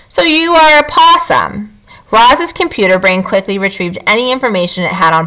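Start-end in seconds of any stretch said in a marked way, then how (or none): 0.1-1.7 slow, measured robot voice. Acted. Robot Roz realizing the creature is a possum, slow and measured. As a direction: speak like a careful machine.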